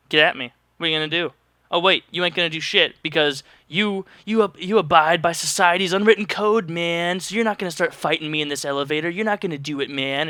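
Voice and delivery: cocky, taunting; swaggering mock challenge to strangers in an elevator; defiant rebel. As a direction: brag about it and dare them to react. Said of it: "Just act like a rebel and be like".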